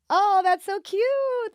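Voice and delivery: mock gush. Imitating his gushing reaction.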